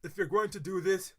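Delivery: steady news-style reading; article read-aloud. Acted.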